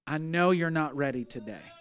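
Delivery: quiet pastoral comfort; gentle reassurance. Retold or imitated. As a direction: softly reassure someone who is hurting. Retold gentle ministering to crying woman.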